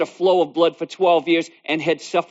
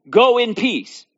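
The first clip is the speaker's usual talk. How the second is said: voice of Jesus; 6 semitones higher, slower than usual. Acted. Jesus's words repeated.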